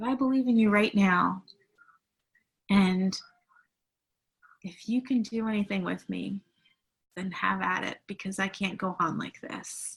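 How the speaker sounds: choked-up, pleading, voice catching with emotion. Retelling a story heard many times, still getting choked up. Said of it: "I always get choked up about this".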